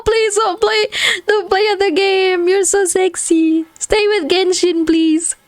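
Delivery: high, whiny begging plea; pleading company voice. Pretend. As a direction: beg like a clingy game company. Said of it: "Hoyoverse like".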